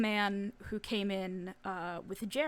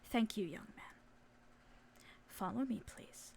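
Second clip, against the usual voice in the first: hushed, polite, firm; soft courteous request; quiet chaperone; 11 dB quieter than usual. Acted. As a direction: speak softly, almost whispering, as a calm adult in charge. Chaperone leads boys aside quietly.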